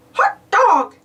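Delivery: high, cheery Mickey exclaim. Acted. Mickey reacting to the pumpkin, high and delighted. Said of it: "said Mickey".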